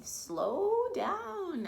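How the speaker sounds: lightly voiced grandpa, calling a warning. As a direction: call to a racing skater to slow down. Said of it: "Grandpa warned".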